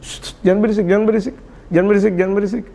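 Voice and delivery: repeated coaxing hush; gentle shushing. Acted. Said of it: "dikasih tahu dengan bijak".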